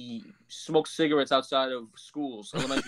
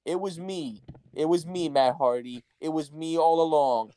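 anticlimactic delivery. Retold or imitated. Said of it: "in the most anticlimactic way".

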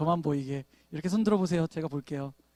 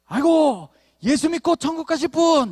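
higher, louder sing-song blessing; mock cheerful greeting; 7 semitones higher, 4 dB louder than usual. Pastor hailing a driver who cuts in, in a loud, cheery mock blessing. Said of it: "이렇게 인사하는 거죠".

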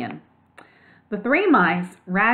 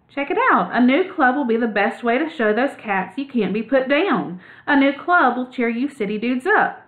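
lightly voiced laid-back dude mouse, higher; a hint of a slangy young mouse pitched up; cool surfer mouse; 5 semitones higher than usual. Ragweed urging the other mice to stand up.

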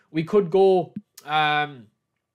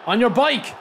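higher, louder urging shout; rising urging yell; 7 semitones higher, 6 dB louder than usual. Real, not acted. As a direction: push him on with a rising cry. Urging striker, building.

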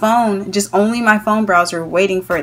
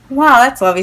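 mock-impressed retort; retold sarcasm, dry praise for a mishap; sarcastic; 3 semitones higher, 4 dB louder than usual. Sarcastic reaction to checkout mistake.

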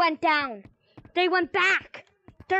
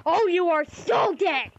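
threatening. Acted. Threatening the vape seller.

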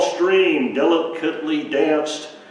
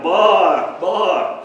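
loud, higher repeated baas; frightened lamb calling twice; scared lamb bleats; 6 semitones higher, 7 dB louder than usual. Acted. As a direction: bleat for the shepherd to come.

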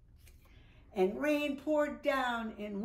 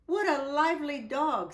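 delighted; 5 semitones higher, 5 dB louder than usual. Acted. Woman voiced in story.

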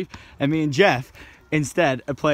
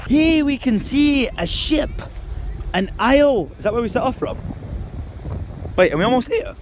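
mock tour guide; 9 semitones higher than usual. Vlogger narrating the view to camera, hammed-up presenter voice. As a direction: narrate the coastline like a nature show host.

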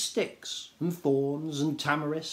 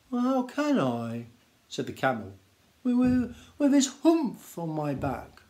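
whining camel; 2 semitones higher than usual. Acted. Camel complains.

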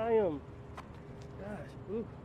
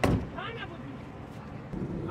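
drawn-out safe word; 6 semitones higher, much slower than usual. Real, not acted. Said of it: "Remember what I said?".

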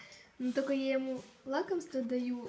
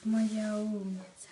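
drawn-out praise; 2 semitones lower, 3 dB louder, slower than usual. Real, not acted. Praising dog.

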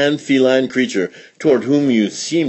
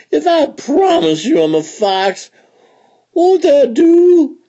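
tearful begging; 6 dB louder than usual. A narrator's reading. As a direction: beg through tears.

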